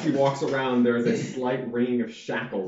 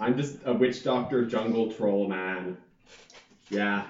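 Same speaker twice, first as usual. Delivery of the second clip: put-on Jamaican accent. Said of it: "terrible Jamaican accent".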